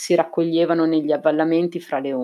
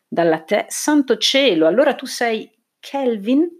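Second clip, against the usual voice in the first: broken off, then pitch leaps up; gasped-out recognition, much higher; astonished; 6 semitones higher than usual. A narrator's reading. Man suddenly realising who his visitor is, astonished.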